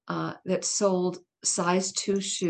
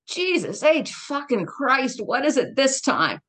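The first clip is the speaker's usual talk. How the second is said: mild gruff snap, slow and pitched up; a hint of the irascible father barking down the phone; irritable father; 6 semitones higher, slower than usual. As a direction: answer the phone as the grumpy doctor dad. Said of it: "He would answer our home telephone".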